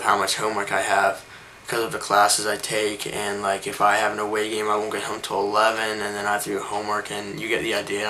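speech thick from a new retainer; talking around a retainer; wearing a retainer. Real, not acted. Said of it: "if I'm talking weird, it's 'cause I just got my braces off".

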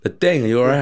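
high, worried voice; alarmed client. Retold or imitated. Client alarmed he almost fell.

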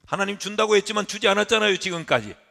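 높고 크게 따지는 항변; 하나님께 대들듯 목소리를 높여라; 악다구니 흉내. Acted. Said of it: "악다구니를 쓰고 있는 거죠". (악쓰듯 따지기)

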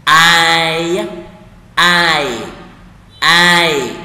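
loud, drawn-out single word; slow word-by-word. Shown as a demonstration. Teacher has learners read along word by word, slowly. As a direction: say each one long, loud and separately. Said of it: "đọc chậm từng từ một".

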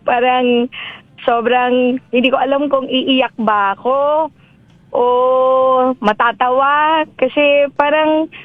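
tearful. Real, not acted. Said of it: "uy, naiyak talaga ako".

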